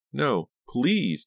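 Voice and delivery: high, desperate plea; begging. A narrator's reading. Dina begging Farberson not to make her, pleading. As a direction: beg him in a high voice. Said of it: "Dina begged".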